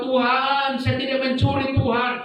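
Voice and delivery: high pleading voice; imitated distressed cry to heaven; retold tearful prayer. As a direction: plead with God, re-enacting a desperate prayer. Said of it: "menangis begitu luar biasa".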